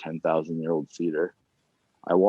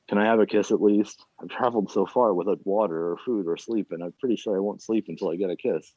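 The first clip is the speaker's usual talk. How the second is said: Treasure of the Sierra Madre voice; 3 semitones higher than usual. Acted. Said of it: "doing my best Treasure of the Sierra Madre voice".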